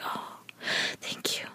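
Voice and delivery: soft retold thanks. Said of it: "she's like".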